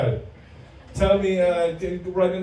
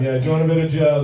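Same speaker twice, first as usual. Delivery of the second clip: quoting the barber; 5 dB louder, faster than usual. Retold or imitated. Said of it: "you go".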